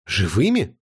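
a touch of horror in the question; lightly shocked, alive?; mild horror. A narrator's reading. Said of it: "ужаснулась Тель". (лёгкий ужас)

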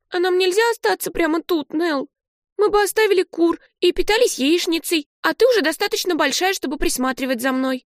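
put-on high, eager child's voice; a kid hatching a plan; hopeful little girl. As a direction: Olive pitching her plan to Nell, high and eager. Olive scheming to stay.

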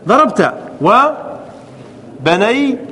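each syllable of ضربت stretched very slowly; slow drawn-out demo. Shown as a demonstration. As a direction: spell the verb out slowly for the class. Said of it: "teacher drawing out verb forms". (نطق بطيء ممدود للتوضيح)

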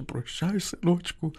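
high, crying goodbye; aunt weeping as she parts with the boy; tearful farewell. A narrator's reading. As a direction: say goodbye through tears. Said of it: "заплакала тихо ... зашепотіла гаряче".

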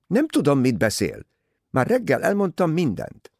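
high-pitched, irritated denial; defensive protest. A narrator's reading. Rosalie denying she hides anything from Poirot, defensive. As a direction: protest as if wrongly pressed. Defensive girl denies knowing more.

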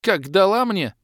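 loud high stunned exclamation; dazed cry. Acted. Dazed warrior after the hit, stunned cry. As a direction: still reeling.

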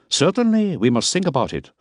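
Miller. A narrator's reading. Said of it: "to see if he had said the right thing".

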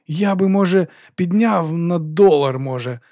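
forcing out a painful offer; squeezing words out. A narrator's reading. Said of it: "заледве вичавлюючи слова".

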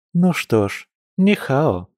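high-pitched teasing greeting; barely hidden smirk. Acted. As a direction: greet them high, holding back a smirk. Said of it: "с едва скрываемой ухмылкой произнесла Маша".

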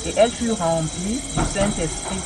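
measured scripture reading, slowing at the end; careful Bible reading slowing on the quoted words; reading aloud from the Bible. Shown as a demonstration. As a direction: read the verse out deliberately.

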